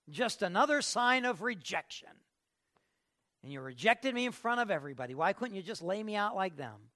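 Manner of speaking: loud, acted protest of rejection; aggrieved complaint. Preacher plays a worshipper accusing God of rejection, aggrieved. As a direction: protest like someone who has been snubbed.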